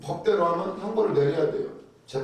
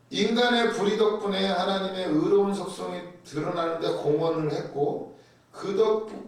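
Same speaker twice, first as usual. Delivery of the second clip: usual speaking voice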